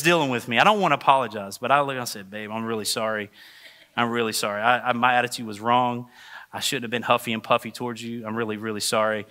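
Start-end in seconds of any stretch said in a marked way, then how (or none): 2.3-9.3 retold contrite apology.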